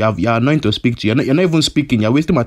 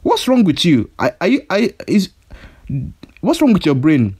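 angry; 6 semitones higher than usual. Acted. Angry at caller.

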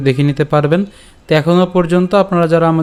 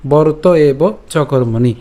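slow, measured final phrase; verse recitation; much slower than usual. Shown as a demonstration. Teacher showing an easy last line, slow recitation. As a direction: draw out each word of the shloka. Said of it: "একদমই সহজ".

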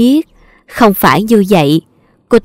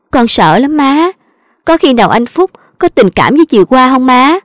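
a hint of a sulky young wife, a bit higher; lightly voiced whiny daughter-in-law; 3 semitones higher than usual. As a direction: complain sweetly to the mother-in-law, lightly voiced. Daughter-in-law whining to mother-in-law.

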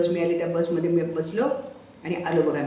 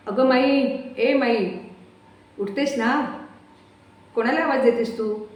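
higher, louder call of माई; calling to wake her; 5 semitones higher, 4 dB louder, slower than usual. Acted. Son rouses Mai at night, calling her loudly. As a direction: son calling his dozing mother awake.

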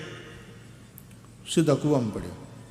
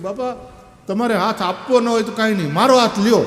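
higher and louder, with મારો punched hard; the boy leans on મારો, offering his own hand; મારો said high and loud, then હાથ લ્યો; stress on my hand; 7 semitones higher, 6 dB louder than usual. Retold or imitated.

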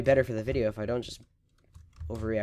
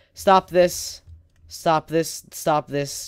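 firm loud scold to yourself; self-scolding; 3 semitones higher, 5 dB louder, much slower than usual. Real, not acted. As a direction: snap at yourself to stop. Scolding himself after failing.

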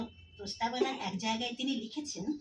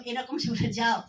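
slow, firm, a little louder; mock command; 6 dB louder, slower than usual. Lecturer acting out a gesture's meaning, slow firm command. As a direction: wave someone aside, drawn out. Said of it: "আমি বললাম".

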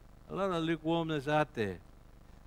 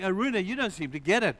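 freaking out; 3 semitones higher, 4 dB louder than usual. Acted. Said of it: "David is freaking out".

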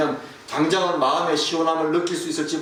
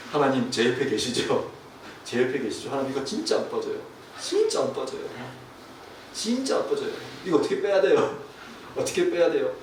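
retold desperate prayer; 3 semitones lower than usual. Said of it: "기도가 절로 나오더라고요".

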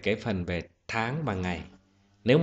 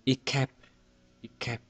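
"It kept" with the weight on "kept"; second-syllable stress; 4 semitones higher than usual. Shown as a demonstration. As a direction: lean on "kept" in "It kept". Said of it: "Trọng âm rơi bấm tiết thứ hai".

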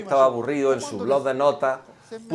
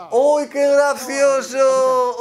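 mock delight; 7 semitones higher, 6 dB louder, much slower than usual. Mocking the cute gestures.

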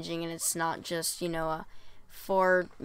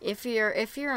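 voice crack; 5 semitones higher, 4 dB louder than usual. Real, not acted. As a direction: pitch cracking upward mid-phrase. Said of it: "Sorry, that was a voice crack".

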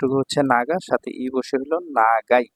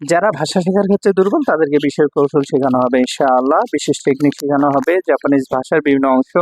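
louder, upbeat promo voice pitching a course; ad read; 3 dB louder than usual. Acted. Teacher pitching his Japanese course to viewers, louder promo read. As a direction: sell the classes like a radio ad.

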